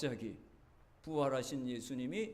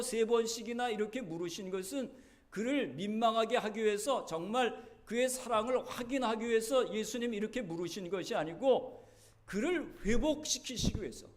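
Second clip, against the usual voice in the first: loud, higher sermon climax; impassioned preaching; 6 semitones higher, 6 dB louder than usual. Acted. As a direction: press the point on the congregation. Preaching climax on Jesus's question. (열정적으로 외치는 설교)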